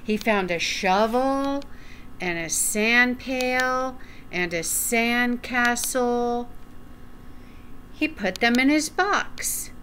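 gentle storytime narration; reading to children. Acted. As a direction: read it like storytime for little ones. Reading a picture book aloud.

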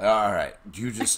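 high, loud mock exasperation; exasperated. Son leaving his mother behind, mock exasperated. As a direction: act fed up and brush her off.

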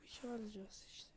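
whisper. Real, not acted. Quiet aside while playing.

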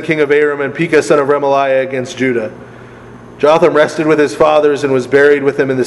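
reading aloud, lifted and steady; scripture reading. Acted. Teacher reads Kings to the class, scripture-reading voice. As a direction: read the verse out clearly to the group.

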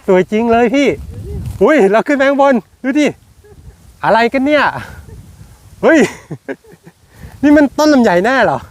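high, excited exclamations of wonder; amazed excitement. Real, not acted. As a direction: gasp out how stunning it is. Amazed by laden longan tree.

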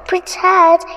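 high, loud shocked shout. A narrator's reading. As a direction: witch shouts the name in outrage. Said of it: "shouted the witch".

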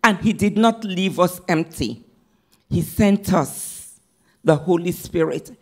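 ordinary delivery

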